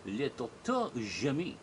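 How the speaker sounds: slow, grand French-styled name; a hammed-up French introduction; mock French title. Shown as a demonstration. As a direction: announce yourself like a French doctor. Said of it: "or perhaps I should say".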